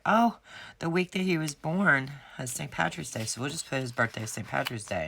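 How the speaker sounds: lightly voiced cheerful vet; chirpy vet receptionist. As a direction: chirp it out like the friendly vet staff. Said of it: "she was like".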